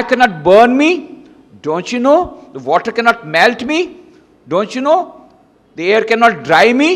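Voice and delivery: loud, high, scornful cry; a fearless saint scolding the emperor at full voice; scornful rebuke. Acted. Saint rebukes Alexander with his sword.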